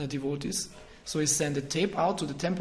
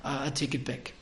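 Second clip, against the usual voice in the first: mock apology. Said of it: "He said".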